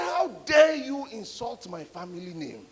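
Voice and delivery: slow, loud retold outburst of offended pride; angry father. Angry father berating the preacher over his family name. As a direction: imitate the furious father shouting him down. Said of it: "he got very angry".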